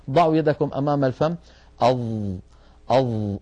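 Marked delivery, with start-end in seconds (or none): 1.8-2.0 "أظ" held on a voiced emphatic ظ; demonstrated ẓa. Shown as a demonstration. Teacher having students test breath by hand, "أظ" sustained. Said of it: "جربوا هكذا". 2.9-3.4 "أظ" with the emphatic ظ voiced and held; demonstrated ẓa. Shown as a demonstration. Teacher prompting students to copy, "أظ" held. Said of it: "انطقوا حرف الظاء".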